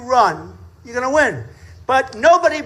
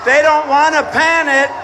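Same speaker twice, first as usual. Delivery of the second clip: shouting at cameras. Real, not acted. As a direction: order the cameras round.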